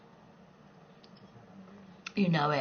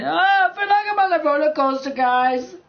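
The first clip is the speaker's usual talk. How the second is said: higher, louder excited streamer voice; imitating PewDiePie; 6 semitones higher, 4 dB louder than usual. Telling viewers about PewDiePie, excited mock voice. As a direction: ham up a thrilled YouTuber. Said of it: "He goes walking around".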